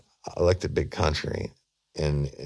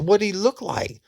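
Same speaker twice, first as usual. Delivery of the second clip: eager; 3 dB louder than usual. Retold or imitated. Detective's urgent questioning.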